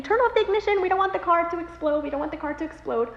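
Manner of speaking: retold husband's alarm; urgent warning. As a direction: warn them of danger. Husband urging during the crash emergency.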